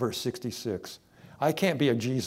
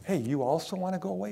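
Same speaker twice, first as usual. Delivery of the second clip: casual Jesus; 6 semitones higher, faster than usual. Acted. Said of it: "he looked at twelve and he says".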